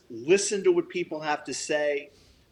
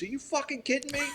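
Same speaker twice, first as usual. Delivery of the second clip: much higher, fast, incredulous squeal; stunned disbelief; 12 semitones higher, 4 dB quieter, faster than usual. Retold or imitated. Car thief hearing the dog's worth, incredulous and high. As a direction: play the shock of a thief who undersold.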